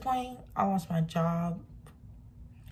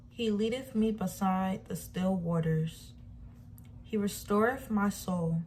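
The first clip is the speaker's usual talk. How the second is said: scripture reading. Acted. Reads Psalm 23 aloud.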